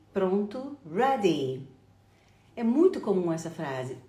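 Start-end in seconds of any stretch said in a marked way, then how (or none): 0.9-1.7 "ready" lower, ending on a long ee; long final I. Shown as a demonstration. Teacher repeating the model for learners, "ready" with long ee. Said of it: "pronunciadas com um I longo".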